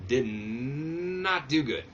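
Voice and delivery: slow, stretched did not do good; drawn out dismay. Real, not acted. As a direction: drag it out in disbelief. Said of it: "Not do good at all".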